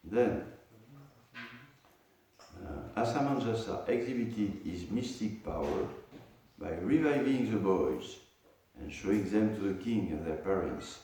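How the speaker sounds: measured reading aloud of a verse; scripture reading. Acted. Teacher reading a scripture verse to students, measured recitation. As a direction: recite the verse, then read out its translation.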